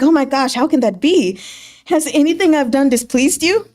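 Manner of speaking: lightly hammed-up dismay; pretend upset. Gu Fu Zhou feigning hurt, mildly mock upset. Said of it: "pretends to be upset about it".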